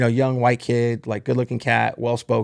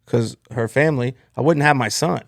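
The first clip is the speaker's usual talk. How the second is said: retold threat; 2 semitones higher than usual. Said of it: "I'm getting fired up".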